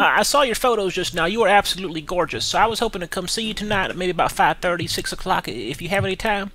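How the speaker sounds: put-on a light hillbilly Kentucky accent, polite and shy; put-on country voice. Caller Billy asks Joy to go easy, in a light Kentucky accent. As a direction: play a bashful Kentucky farm boy. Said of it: "I know my voice is kinda funny".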